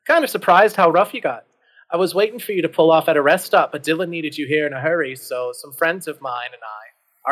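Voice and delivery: put-on British accent, chatty; charming British accent. British werewolf explaining the rest stop, charming British accent. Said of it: "in his charming British accent".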